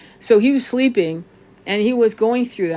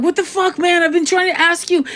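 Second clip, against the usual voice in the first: much higher, startled and panicked cry; imitating a man jolted awake from sleep paralysis; panicked partner; 10 semitones higher, 3 dB louder than usual. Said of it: "And he was panicked".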